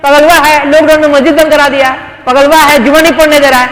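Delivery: lightly voiced gossip calling him crazy; imitating market detractors. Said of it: "market में लोग सुनते होंगे मेरे बारे में".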